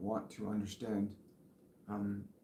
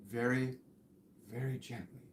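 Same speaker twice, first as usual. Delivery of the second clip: whispering; 7 dB quieter than usual. Retold or imitated. Psychic echoes archangel's whisper to the viewer, very softly. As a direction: whisper it right into their ear. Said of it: "Like he's whispering in your ear".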